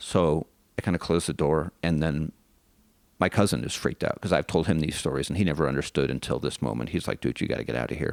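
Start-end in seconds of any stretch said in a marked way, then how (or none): 7.2-8.1 mock-afraid whisper, lower pitch. Retelling what a frightened cousin said to them, imitating a scared whisper. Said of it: "he's like whispering because he's afraid".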